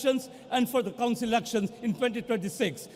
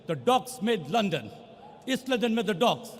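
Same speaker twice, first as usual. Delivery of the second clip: rising to a shout on the last line; rousing rally punchline. Real, not acted. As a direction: build the logic up to a triumphant shout.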